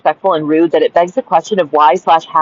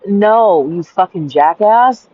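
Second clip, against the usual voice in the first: slow, drawn-out put-down; exasperated retort; much slower than usual. Acted. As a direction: stretch out the rebuke in exasperation. Retort to imagined man.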